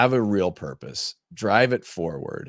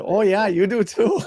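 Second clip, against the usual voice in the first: higher playful retort, said with a laugh in it; mock comeback; 11 semitones higher, 4 dB louder than usual. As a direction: tease them right back. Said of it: "I said".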